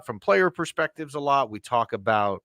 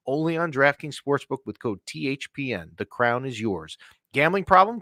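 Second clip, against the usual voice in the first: sponsor ad read; 3 semitones higher than usual. Acted. Host reads a sponsor ad.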